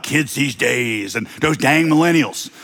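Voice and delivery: lightly voiced old person complaining about youngsters; old person grumbling. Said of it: "Old people love to talk about".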